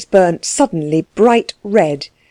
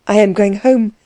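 wild; 5 semitones higher than usual. A narrator's reading. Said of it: "said Klutz wildly".

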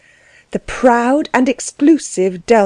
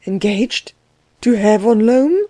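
dazed, rising echo of the news; stupid echo. A narrator's reading. Klutz stunned by the engagement, echoing it dumbly. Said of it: "Klutz echoed stupidly".

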